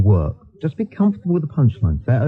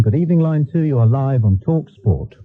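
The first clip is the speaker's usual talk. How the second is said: announcer read. Shown as a demonstration. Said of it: "Give you an example".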